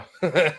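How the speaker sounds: short mock sinister laugh; a quick evil chuckle. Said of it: "right time for a sinister laugh".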